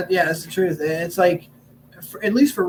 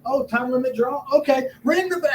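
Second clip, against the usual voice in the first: feigned hearing; 6 semitones higher than usual. Acted. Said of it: "acted like I did something".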